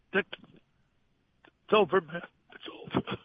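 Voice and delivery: slow, drawn-out, breaking into breath; choked up, slowly saying it's over; grieving. Retold or imitated. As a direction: voice cracking with real grief. Retelling dying friend's last words.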